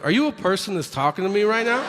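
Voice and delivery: incredulous. Retold or imitated. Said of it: "And I go".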